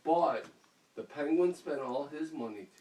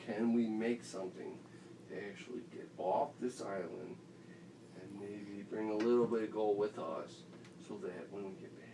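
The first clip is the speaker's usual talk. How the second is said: calm planning; 7 semitones lower, 5 dB quieter than usual. Acted. Jimmy John calmly proposes a plan.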